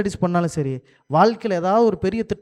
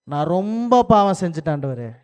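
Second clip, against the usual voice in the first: earnest repentant plea to God, a touch raised; Solomon's pleading prayer; 3 dB louder than usual. Retold or imitated. Remorseful king begging God to take him home, pleading. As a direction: beg forgiveness as a remorseful king. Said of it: "சொல்லியிருப்பாரா?".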